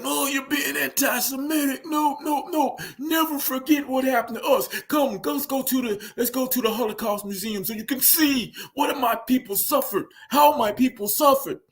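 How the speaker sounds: very high, hammed-up mock Jewish accent; exaggerated, high-pitched bad Jewish accent; terrible Jewish accent. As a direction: plead indignantly in a badly faked Jewish accent. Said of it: "that's a terrible Jewish accent".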